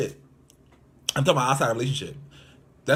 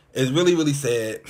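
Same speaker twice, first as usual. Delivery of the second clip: louder, pressing on really; emphatic lament; 3 semitones higher, 6 dB louder than usual. Real, not acted. A mime insisting to viewers how sad it is, louder. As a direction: lean hard into the repeated really.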